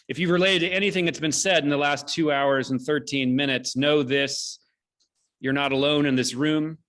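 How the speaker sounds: measured, solemn closing address to the audience; earnest benediction offered to everyone gathered; formal benediction. Real, not acted. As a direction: deliver it like a closing blessing. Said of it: "I'm gonna say it".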